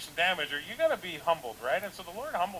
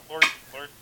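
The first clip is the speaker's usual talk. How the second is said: loud, hammed-up cry to the Lord; mock pleading prayer; 11 dB louder than usual. Pastor parodying a vengeful prayer, loud mock plea. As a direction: overplay a desperate call to heaven. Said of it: "And don't pray like".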